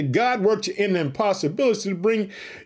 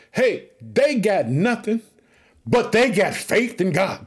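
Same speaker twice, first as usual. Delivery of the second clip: slow emphasis; slower than usual. Acted. Preacher slows for key line.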